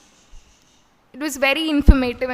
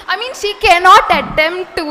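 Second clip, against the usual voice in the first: words pushed out through laughter, louder and higher; amused laughing aside; laughing while talking; 5 semitones higher, 9 dB louder than usual. Real, not acted. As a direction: keep laughing as you speak. Still laughing about the teacher's accent.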